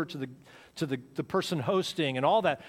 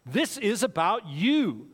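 consumer message; 4 semitones higher, 3 dB louder, much slower than usual. Retold or imitated. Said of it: "we've been raised and taught and fed".

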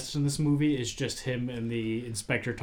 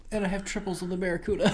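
the inspector; 8 semitones higher, faster than usual. Retold or imitated. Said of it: "And the inspector goes".

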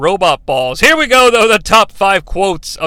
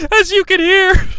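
laughing; 11 semitones higher than usual. Real, not acted. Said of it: "I can't even say it without laughing".

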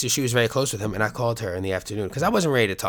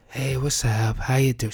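higher, slightly mock grieving mom; a light take on mom's phone greeting; imitating mom; 4 semitones higher than usual. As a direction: say Hey, what's up? higher, as his mom. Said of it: "She's got this voice that she does when she's grieving".

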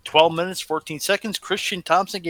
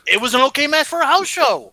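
bitter; 8 semitones higher, 3 dB louder than usual. Real, not acted. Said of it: "Were you bitter when you watched this".

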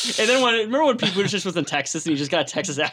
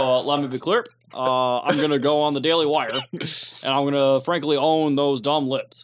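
Barack Obama; 4 semitones lower than usual. Acted. Comic showing off an impression, mock-statesmanlike. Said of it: "my impressions just sound like Barack Obama".

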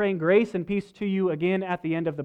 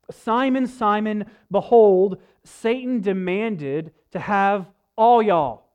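folksy Southern drawl, slow and emphatic; light Southern accent, playful; rednecky Southern reading; 3 semitones higher, 7 dB louder, slower than usual. Retold or imitated. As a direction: read it like a down-home Southern preacher. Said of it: "our kind of rednecky version of the Bible".

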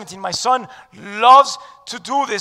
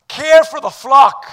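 loud, slow proclamation; emphatic; 4 semitones higher, 9 dB louder than usual. Acted. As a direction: hammer care out slowly. Preacher repeats verse for emphasis.

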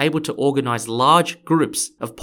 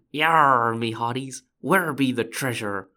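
drawn-out pirate growl of a greeting; slower than usual. Acted. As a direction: play a storybook pirate hunting treasure. Podcast opens with pirate skit.

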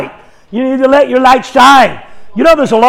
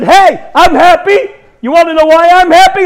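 happy yelling; 6 semitones higher than usual. Retold or imitated. Preacher calling to two guys at Dunkin' Donuts, happily yelling. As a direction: re-enact an exuberant holler. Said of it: "I'm yelling now in the Dunkin' Donuts".

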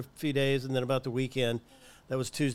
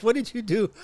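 louder, higher teasing question; mock accusing question; 9 semitones higher, 6 dB louder than usual. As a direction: playfully grill the German nurse. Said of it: "so I'm like".

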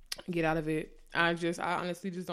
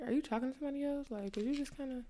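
higher, softer and quick, unsure; pitched-up, soft worried asking; timid questioning; 7 semitones higher, 6 dB quieter, much faster than usual. Retold or imitated. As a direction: ask carefully so as not to seem clingy. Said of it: "I'm like".

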